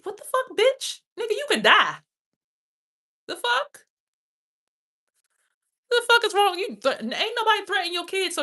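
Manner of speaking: high, loud screaming outrage; furious shout. Real, not acted. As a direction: scream it at him, at full force. Furious rant at a man.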